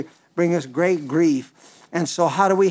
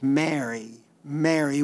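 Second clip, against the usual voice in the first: tender call; 2 semitones lower, 4 dB quieter than usual. Acted. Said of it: "I wish I could have heard how Jesus said it".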